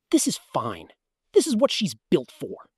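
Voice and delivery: a hint of a dad faking calm; mildly voiced dad, insisting all is fine; Dad impression. Kid imitating dad calming the family on the trail. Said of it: "Dad impression".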